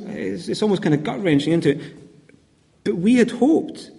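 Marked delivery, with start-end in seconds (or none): 2.8-3.9 higher, slow and drawn out, clinging to hope; wistful lament. Acted. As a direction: linger on had hoped as if pleading. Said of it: "you can feel almost the tragic despair".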